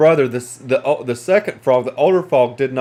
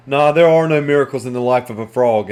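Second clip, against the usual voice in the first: sad, low; 3 semitones lower than usual. Acted. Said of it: "he looked down sadly and he said".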